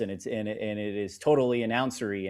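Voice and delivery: lightly put-on deep broadcaster voice; deep announcer voice. Shown as a demonstration. Sportscaster mocking the broadcaster stereotype, lightly deepened announcer voice. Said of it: "the person with the deep voice".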